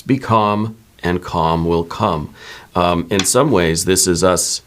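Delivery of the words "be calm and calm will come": slow, deliberate affirmation; reading the affirmation. Shown as a demonstration. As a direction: lean into each word, slowly. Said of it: "let's do an affirmation card".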